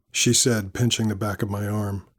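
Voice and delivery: plain reading voice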